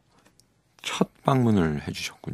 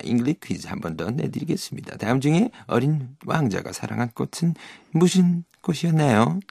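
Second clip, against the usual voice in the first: snake voice; 5 semitones higher than usual. Shown as a demonstration. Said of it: "그 뱀 목소리로".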